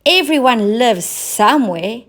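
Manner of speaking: the clown crying out in despair; the clown crying out to the cat. A narrator's reading. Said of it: "cried the clown".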